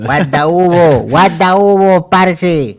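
drawn-out Colombian-accented hero imitation; playful repeated Colombian catchphrase; mock Colombian Superhero. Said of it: "Superman le va a hablar así".

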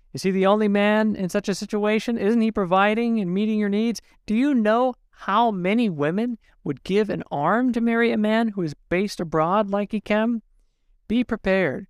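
put-on mother-in-law scolding the young wife, scornful; dismissive mother-in-law. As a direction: brush off her daughter-in-law's hurt.

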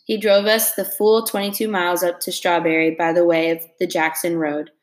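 steady read-aloud narration for a class; story reading. A narrator's reading. Teacher reading a novel chapter to her class, steady narration.

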